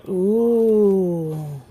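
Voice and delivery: long, gliding "ooh" of interest; drawn-out ooh. Real, not acted. Vlogger looking at a glittery bath melt, drawn-out ooh. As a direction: let out one sustained ooh. Reacting to the bath melt's look.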